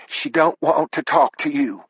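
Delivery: high-pitched mother on the phone; high voice of an objecting mother; disapproving mother. Acted. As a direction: refuse the caller in a high voice. Mother answers late-night call.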